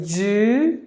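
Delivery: long rising first syllable in "jewelry", then pauses. Shown as a demonstration. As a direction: sound out all three parts of "jewelry". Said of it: "There are only three syllables in this word".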